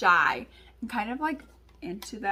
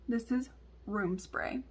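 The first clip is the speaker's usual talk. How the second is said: softer, slow, measured telling; retold explanation; 5 dB quieter than usual. Mom explains the bottle to daughter, slow and measured. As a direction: break it to them slowly and a little softly.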